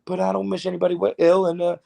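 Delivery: lightly voiced ballplayer dodging the question; David Wright. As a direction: rattle off a polite canned answer. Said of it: "you know him. He'd just be like".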